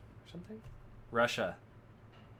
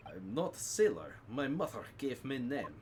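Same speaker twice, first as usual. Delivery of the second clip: lightly voiced Russian sailor, broken English; a hint of a stern Russian crewman; gruff Russian sailor.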